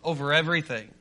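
ringing, declarative sermon delivery; emphatic preaching. Real, not acted. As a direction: preach it with conviction, landing each key word.

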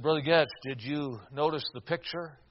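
low, soft, subdued question; understated grief, halting delivery; tearful. Retold or imitated. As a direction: quietly imitate a grieving father holding back tears. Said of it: "Tears were now welling up in his eyes".

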